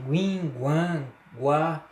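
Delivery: "guim", "guan" nasal, then "guá" open; diphthong sounds. Shown as a demonstration. Teacher listing diphthong sounds for students, isolated "guim", "guan", "guá". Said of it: "Esse som".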